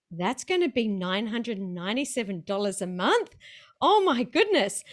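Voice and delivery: mildly aghast, voice jumping up at the end; shocked reaction. Retold or imitated. Coach recalling her reaction to the new price, mock shocked.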